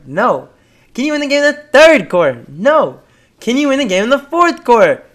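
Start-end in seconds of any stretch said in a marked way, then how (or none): 0.9-2.4 coach's rhetorical question, high and quick; rallying call-and-response, pitched up; Pete Carroll. Retold or imitated. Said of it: "What does Pete Carroll say?". 3.4-5.0 rhetorical build-up, pitched high; Pete Carroll. Retold or imitated. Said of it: "What does Pete Carroll say?".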